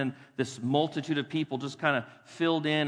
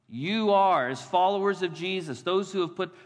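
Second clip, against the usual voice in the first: preaching emphasis; 4 semitones higher, 4 dB louder than usual. Acted. Preacher exhorts congregation.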